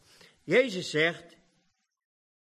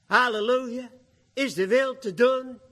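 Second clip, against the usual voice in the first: preaching burst; 6 semitones higher, 4 dB louder than usual. Real, not acted. Preacher's exclamation inside quote.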